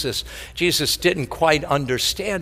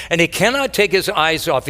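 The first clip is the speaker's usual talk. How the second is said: emphatic; 2 semitones higher, faster than usual. Shown as a demonstration. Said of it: "repeated line".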